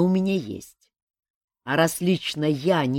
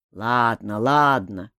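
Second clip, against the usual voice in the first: angry; 3 semitones lower, 6 dB louder, slower than usual. A narrator's reading. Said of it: "сердито откликнулся мужичок".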